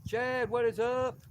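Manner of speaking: high, slow drawn-out hello; excited greeting. Real, not acted. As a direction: call out a big hello to a friend. Greeting a viewer on the live.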